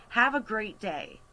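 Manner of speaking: a friendly send-off with no sarcasm; not snarky. Retold or imitated. Cashier handing over the bag to customer, not snarky. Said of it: "Not snarky, not sarcastically".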